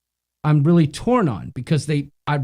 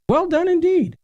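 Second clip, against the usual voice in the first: mock praise; 12 semitones higher than usual. Ironic praise of a comment.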